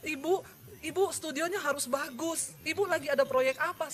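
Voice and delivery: imitated tearful caller. Caller urging the preacher about her studio, mildly mock-tearful. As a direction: keep up a mild imitation of the crying caller. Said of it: "ada yang telepon nangis-nangis".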